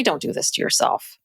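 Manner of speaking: breathy whisper, pleading softly; under-the-breath plea to a TV character; hushed plea. Retold or imitated. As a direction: whisper it like begging her to stop. Pleading with Mary on TV.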